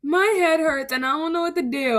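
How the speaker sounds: high imitation of a helpless sufferer; mock complaining whine. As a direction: whine it, mimicking a friend. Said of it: "you sit here and you're just like".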